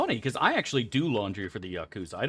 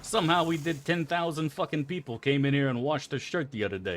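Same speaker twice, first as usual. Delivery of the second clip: rough Jersey Italian accent done badly; mock Jersey Italian accent; 6 semitones higher than usual. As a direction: brag like a New Jersey wiseguy, hammed-up. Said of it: "I don't know what accent I'm doing".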